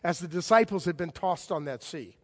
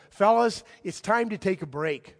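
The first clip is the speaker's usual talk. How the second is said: Jesus to his friends; 5 dB louder than usual. Retold or imitated. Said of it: "in effect, says to them".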